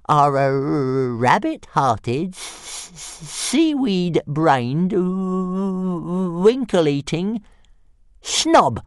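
high, drawn-out dragon insults; calm taunt. A narrator's reading. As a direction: savour each insult through a long stutter. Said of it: "said Toothless calmly".

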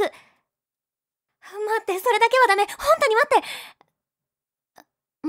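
high loud pleading yell; desperate shout. Acted. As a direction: beg him at full voice to stop. Begging him to stop.

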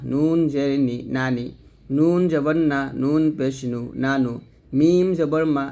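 measured spelling chant, long "নুন", falling to "নানি", "নানু"; simple nun demonstration. Shown as a demonstration. Teacher modelling the easy nun for learners, measured singsong. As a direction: draw out "নুন", then join the syllables as "মিনা". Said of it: "সাধারণভাবে উচ্চারণ করব".

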